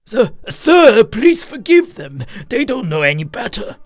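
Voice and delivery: high-pitched apologetic begging; frantic pleading. A narrator's reading. Drunk host begs guest to forgive neighbors, pleading. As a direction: beg pardon urgently on their behalf.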